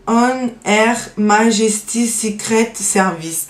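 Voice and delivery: careful English accent on the brand name. Real, not acted. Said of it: "désolée pour mon accent pourri". (nom anglais prononcé lentement avec un accent anglais approximatif)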